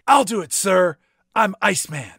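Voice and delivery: a hint of a cocky pilot volunteering; mock eager pilot. Voicing pilot volunteering, jokey.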